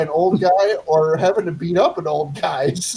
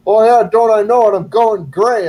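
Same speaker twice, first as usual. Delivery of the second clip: mock boastful old guy; 3 semitones higher, 6 dB louder than usual. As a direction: play his loud, cocksure comeback. Old guy's reply acted in retold story.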